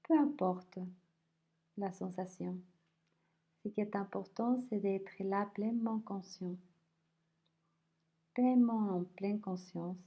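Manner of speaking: unhurried body scan voice, leaving space between phrases; guided meditation. Acted. Teacher guiding listeners through a body scan, calm guided meditation.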